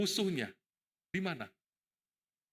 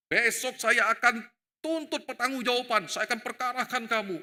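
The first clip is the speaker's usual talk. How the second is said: angry threat; 5 semitones higher, 3 dB louder than usual. Retold or imitated. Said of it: "Oh, dia marah".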